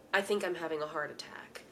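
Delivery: low-key, quickened, near-whispered report; imitated calm. Co-host imitates husband announcing his heart attack, oddly calm. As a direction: say it mildly, as if no emergency. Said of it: "he was saying it so calmly".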